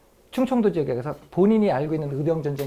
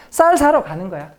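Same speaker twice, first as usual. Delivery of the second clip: louder, higher, breezy voice of a member pretending to shop; playing a cover story; 5 semitones higher, 5 dB louder than usual. Lecturer playing a resistance member's cover story, louder and higher. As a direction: act out the alibi cheerfully, louder. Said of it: "제가 예를 들면 충청도 지부원이에요".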